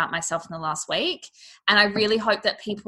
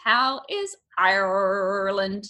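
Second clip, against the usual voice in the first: drawn-out Irish accent attempt; second Irish accent try; much slower than usual. Shown as a demonstration. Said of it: "kinda sounded a bit American".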